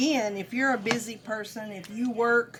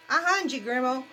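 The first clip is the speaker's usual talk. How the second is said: imitating a hungry grandchild; child voice; 2 semitones higher than usual.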